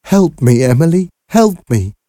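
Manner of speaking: high, loud cry for help; tearful plea. A narrator's reading. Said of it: "could hear Aunt Harriet crying".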